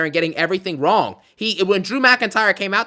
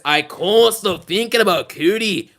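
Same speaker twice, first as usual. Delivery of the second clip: Joe Tessitore call; 3 semitones higher, 3 dB louder, slower than usual. Retold or imitated. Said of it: "Or as Joe Tessitore would say".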